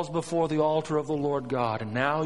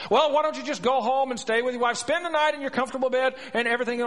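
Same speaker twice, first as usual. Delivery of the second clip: higher, hurried persuasion; coaxing king; 10 semitones higher, 5 dB louder, faster than usual. Acted. David urging Uriah to go home, coaxing. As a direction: rattle off tempting suggestions to talk him round.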